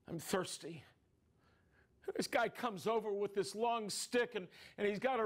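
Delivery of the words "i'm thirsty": soft, weak near-whisper. Acted. Jesus dying on the cross, softly whispered. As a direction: say it faintly, barely projected. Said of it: "Jesus whispers".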